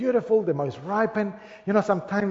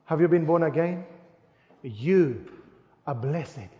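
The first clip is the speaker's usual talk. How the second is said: low and much softer, word by word; soft, slow emphasis; 4 semitones lower, 6 dB quieter than usual. Shown as a demonstration. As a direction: drop the voice and let it sink in. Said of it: "Let me say this very slowly".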